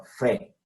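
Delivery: fe, a plain f sound; teacher giving the f sound for ph. Shown as a demonstration. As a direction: say fe, not foe. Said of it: "sonido de F".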